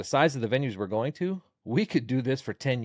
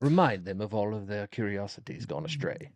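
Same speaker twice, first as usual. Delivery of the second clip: very gentle voice. Shown as a demonstration. Comic showing off the voice he tells stupid people off in, very gently. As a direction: put on a very gentle voice. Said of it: "the very gentle voice".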